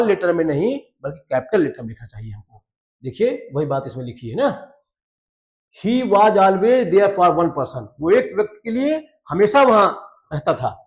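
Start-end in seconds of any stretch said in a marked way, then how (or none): 5.9-7.9 deliberate textbook reading; slow read-aloud. Shown as a demonstration. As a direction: read it word by word. Reads English sentence slowly.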